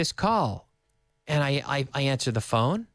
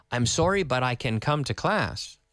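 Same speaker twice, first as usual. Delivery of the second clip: "can" left unstressed, running on into "come to class"; affirmative-style intonation. Retold or imitated. Student cancels class by phone, affirmative-style intonation. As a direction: slide over "can" as if it were affirmative. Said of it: "because he used an affirmative style intonation".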